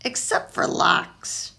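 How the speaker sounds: slow whispered tease; a cheeky jab at Papa; teasing aside. Acted. Pablo teasing Papa about lox, slow whispered aside.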